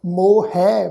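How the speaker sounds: ਮੋਹੈ said with a clear ਐ ending; careful pronunciation. Shown as a demonstration. Teacher models ਮੋਹੈ for the sangat, precise. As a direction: pronounce ਮੋਹੈ fully. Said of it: "ਮੋਹੈ ਪਾਠ ਹੈ ਜੀ".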